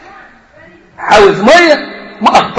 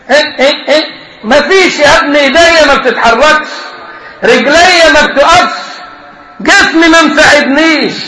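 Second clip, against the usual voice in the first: helpless master; 4 semitones higher than usual. Acted. Crippled master complaining.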